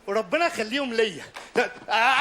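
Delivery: ordinary delivery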